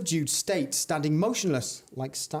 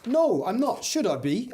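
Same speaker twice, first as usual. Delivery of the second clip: hint of Irish accent; 5 semitones higher, slower than usual. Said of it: "You almost went into a really bad Irish accent".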